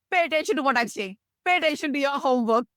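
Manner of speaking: lightly voiced parent telling a child off; a hint of an insistent parent; parent's instruction. Parent telling child to mind homework, mildly insistent. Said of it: "somebody could say, a pen might say".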